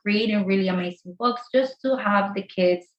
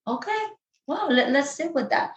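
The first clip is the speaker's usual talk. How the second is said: calm parent; 4 semitones higher than usual. Retold or imitated. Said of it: "No, no, no".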